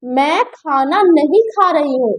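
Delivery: slow, deliberate negative sentence; slow refusal. Shown as a demonstration. Teacher demonstrating a refusal, slow and deliberate. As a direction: lay out the no clearly. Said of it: "दूसरे में मैंने कहा".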